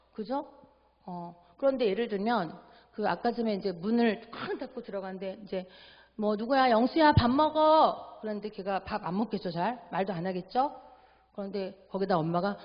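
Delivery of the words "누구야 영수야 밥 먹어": calling to dinner. Retold or imitated. Mom calls son to dinner.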